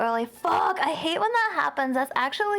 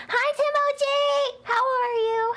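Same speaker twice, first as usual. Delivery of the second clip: excited greeting; 10 semitones higher than usual. Real, not acted. Greeting a chatter brightly.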